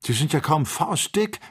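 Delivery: mild narrated astonishment at tiny giraffes; astonished. A narrator's reading. Joe staring down at the giraffes from the balloon, astonished. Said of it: "rief Joe erstaunt".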